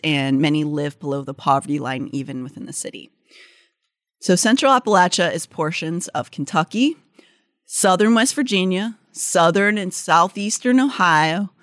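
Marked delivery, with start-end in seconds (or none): 4.2-11.5 light Southern drawl on the place names; a hint of mountain-state drawl; Appalachian drawl. Real, not acted. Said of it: "I like your drawl".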